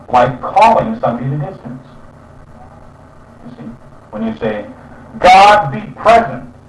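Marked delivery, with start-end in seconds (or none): 5.2-6.5 God be present called loud, high and slow, like to someone far off. Shown as a demonstration. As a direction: call out God be present across a distance. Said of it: "It's a different thing than saying".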